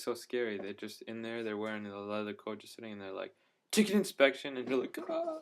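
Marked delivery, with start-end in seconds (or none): 3.7-4.6 high, loud mock official call; spring it on passengers as a loud announcement; imitated inspector's announcement. Imitates inspectors suddenly announcing themselves. 5.1-5.4 very high little scream of alarm; mock frightened scream. Passengers' scared reaction, imitated.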